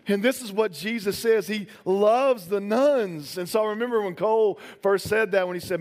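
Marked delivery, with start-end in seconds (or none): 1.5-3.4 slow, weighty delivery; emphatic. Shown as a demonstration. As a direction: lean on each word slowly. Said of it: "repeats key line slowly".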